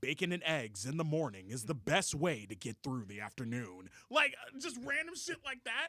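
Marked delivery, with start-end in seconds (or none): 0.0-3.9 intoning stage announcer narrator voice. Recalling the game's stage introductions: imitating the stage intro narrator. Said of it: "this random voice would say the most nonsensical shit".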